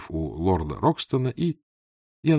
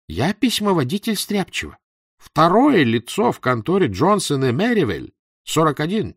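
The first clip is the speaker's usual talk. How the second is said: high-pitched, excitable little clerk; self-important little clerk; 8 semitones higher, 4 dB louder than usual. A narrator's reading. Clerk tells his rival his job, in a high voice. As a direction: announce your post proudly in a high voice.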